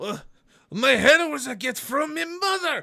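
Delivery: screeching, shrill orc voice, very high and very loud. Voicing an orc who headbutts a player in a bar fight: orc character voice. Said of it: "he looks at you and goes".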